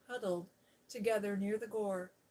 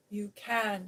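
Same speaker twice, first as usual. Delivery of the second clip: louder firm shout; 6 dB louder than usual. Acted. Mary shouts at Colin he can stop. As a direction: shout him down. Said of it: "shouted Mary".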